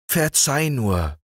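high, slow begging frog voice; the green frog humbly asking pardon; pleading green frog. Acted. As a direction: plead slowly for forgiveness. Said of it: "bat der grüne Frosch".

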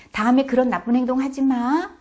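acted scolding parent; vague parental warning. Shown as a demonstration. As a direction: warn a child firmly and loudly. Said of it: "이렇게 말하는".

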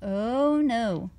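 a show-off cat proud of every trick; boastful cat. Acted.

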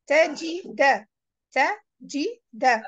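"Tajida" in separate syllables, ending on a clear "da"; teacher's careful "ta, ji, da"; syllable-by-syllable model. Shown as a demonstration. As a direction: sound out "Tajida" slowly, ending in "da". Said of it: "The last alphabet is the".

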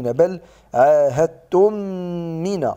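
عاهدتم من with the meem merged and held two beats; correct idgham. Shown as a demonstration. تلاوة عاهدتم من بإدغام شفوي وغنة حركتين. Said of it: "قلت عاهدتم من".

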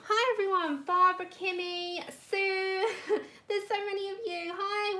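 quick words that spill out in a laugh close to tears; laughing through tears. Real, not acted. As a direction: laugh it out, moved and a bit teary. Overwhelmed greeting to many viewers.

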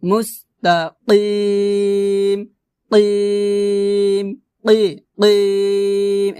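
very slow মুস্তাকিম with throaty q; teacher's drawn-out model of কিম; qaf pronunciation. Shown as a demonstration. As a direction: hold the কিম long on a level note. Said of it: "এভাবে".

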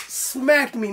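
ordinary talk, nothing marked

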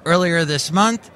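measured newscaster delivery with lifted phrase openings; news read. Acted. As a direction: read it out like a tech news bulletin.

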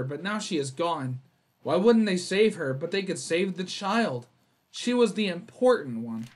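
measured narrator read of the note; a mild spooky narration voice; reading game text. Acted. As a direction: read it like an ominous case report. Reads grieving diary note.

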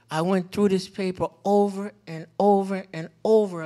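OVER pounded loudly each time in "over and over and over"; exasperated daughter. Retold or imitated. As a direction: hit every "over" hard, imitating an upset child. Retold daughter agonizing over her grade.

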